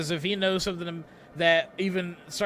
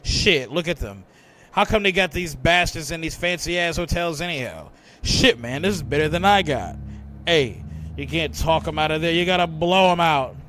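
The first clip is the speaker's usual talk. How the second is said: a lightly voiced bigoted cop, grumbling; gruff-tempered racist sergeant, griping; 2 semitones lower, 5 dB louder than usual. Sergeant Woolley complaining to the briefing room, lightly acted griping. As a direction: gripe like a hard-line police sergeant, lightly put on.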